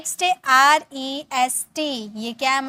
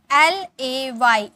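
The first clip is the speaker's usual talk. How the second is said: spelled out slowly; 5 dB louder, much slower than usual. Shown as a demonstration. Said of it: "spelling letters slowly".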